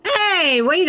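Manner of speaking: high excited voice cracking. Real, not acted. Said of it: "wow, that voice crack".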